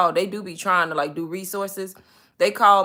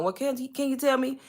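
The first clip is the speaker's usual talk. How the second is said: mock agent voice; 5 semitones higher, 3 dB quieter than usual. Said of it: "She was like, "Well, ma'am".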